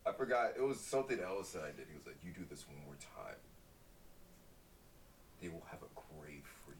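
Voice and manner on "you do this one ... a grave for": lightly voiced African accent, low and quiet; hushed mock African father's threat. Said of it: "he said it in an African voice".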